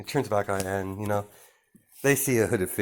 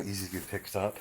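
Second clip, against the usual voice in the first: ordinary delivery, nothing marked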